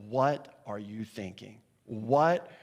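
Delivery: slow, understated disbelief; deliberate, acted incredulity; incredulous. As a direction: draw out the question in mild disbelief. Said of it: "they were simply incredulous".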